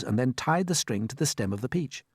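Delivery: ordinary delivery, nothing marked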